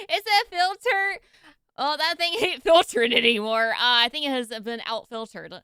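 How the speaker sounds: loud laughing disbelief. Real, not acted. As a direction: laugh through the words. Laughing at dirty filter.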